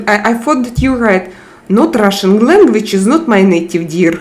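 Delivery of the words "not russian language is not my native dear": a light mock Russian accent; imagine a Russian reading the message aloud; lightly hammed Russian accent. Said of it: "I read you with Russian accent in my head".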